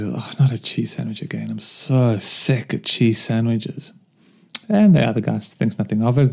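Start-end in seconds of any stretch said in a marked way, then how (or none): 0.0-3.9 soft weary whine, drawn out slow; complaining. Retold or imitated. Worker complaining to his mate about cheese sandwiches, weary whine. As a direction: moan about the lunch again. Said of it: "he just complains".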